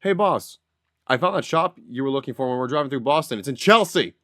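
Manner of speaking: lively retold Boston accent. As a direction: call to the boss in a Boston accent. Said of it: "how did I say it?".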